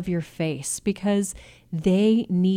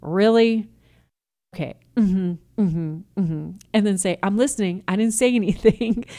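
sarcastic, louder skeptical parent pretending to listen; mock dismissive; 3 dB louder than usual. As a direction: roll your eyes with your voice. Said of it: "a look that says".

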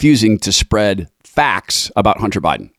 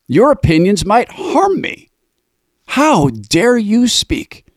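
mock outrage; 10 semitones higher than usual. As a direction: sneer it out like a prissy censor. Mocking censors' outrage.

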